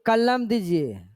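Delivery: कलम hit too hard in कलम दीजिए; overstressed word. Shown as a demonstration. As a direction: demonstrate wrong, heavy stress on कलम. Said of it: "ये नहीं कि".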